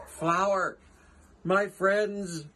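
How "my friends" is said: higher, louder eager elephant; Horton crying out. Acted. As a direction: call out in joyful relief. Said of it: "cried the elephant".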